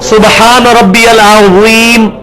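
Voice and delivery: slow recitation with a heavy dh in "العظیم"; "العظیم" said as al-adheem, Arabic style; thick dh. Shown as a demonstration. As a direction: recite slowly, drawing out a rounded, lisped z in "العظیم". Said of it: "یہ موٹا ہو گیا".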